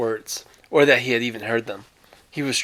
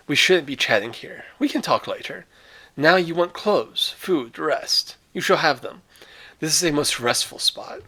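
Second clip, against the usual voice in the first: higher, unhurried courtly host; lightly voiced genial general; 4 semitones higher than usual. General Zaroff invites guest in.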